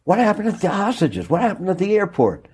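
high-pitched mock shout of reporters; retold shouting. Retelling reporters shouting at the minister, mock high call. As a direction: call out the question, imitating the press crowd. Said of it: "reporters started shouting".

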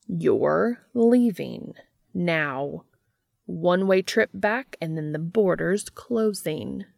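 firm, emphatic dismissal; commanding. Acted. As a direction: order them out, weighting each word. Entity orders the intruder out.

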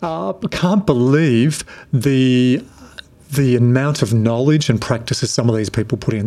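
light Irish accent, imitating a colleague; a hint of an Irish lilt, retold. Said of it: "in his Irish accent".

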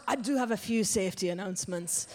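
Scottish butcher making an announcement; imperfect mock Scottish accent; attempted Scottish accent. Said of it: "I can't do the accent very well".

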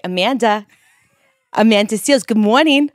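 loud New York Jewish voice greeting; singsong New York Jewish greeting. Acted.

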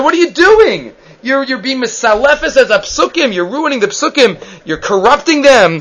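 hammed-up angry rebuke; mock screaming husband. Husband yelling at the wife over her prayer, in mock outrage. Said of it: "he starts screaming".

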